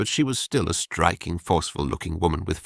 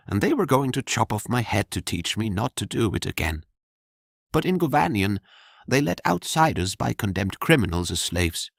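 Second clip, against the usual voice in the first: lightly voiced bold young woman, wry; 3 semitones higher than usual. The girl tells Jorian how she became a slave. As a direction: tell the grim tale with a shrug in the voice. Girl's voice in dialogue.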